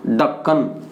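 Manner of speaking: ढक्कन with a low, unaspirated d; Haryanvi ढक्कन. Shown as a demonstration. Teacher showing the Haryana form, ढक्कन low. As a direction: say ढक्कन dropping the breath, low. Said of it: "और वहाँ क्या होगा?".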